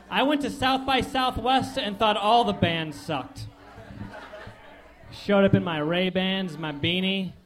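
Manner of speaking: lightly voiced snobby hipster, a hint of scorn; bored ironic hipster. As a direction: sneer at everyone like a hipster's hipster. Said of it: "my impression of a hipster".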